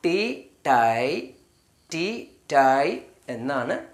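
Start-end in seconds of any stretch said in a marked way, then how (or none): 0.0-1.3 ടീ, ടൈ drawn out slowly; teacher sounding ടീ then ടൈ; slow sound demo. Shown as a demonstration. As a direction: contrast ടീ and ടൈ slowly. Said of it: "ടി ഐ വന്നു കഴിഞ്ഞാൽ".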